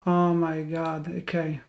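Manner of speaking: quiet defeat; deflated sigh. Real, not acted. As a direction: let the air out, defeated. Calming himself after loss.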